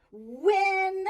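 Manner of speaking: isolated first syllable; stressed syllable. Shown as a demonstration. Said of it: "that is the first syllable".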